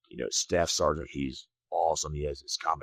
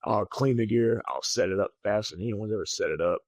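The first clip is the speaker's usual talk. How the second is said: eager; 5 semitones higher than usual. Retold or imitated. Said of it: "And I was just eager".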